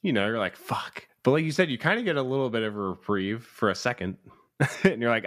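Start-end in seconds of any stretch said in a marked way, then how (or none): 0.6-1.1 breathy whispered curse; whispered dread. Retold or imitated. Viewer dreading the reveal, whispered curse. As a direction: let it slip out under your breath.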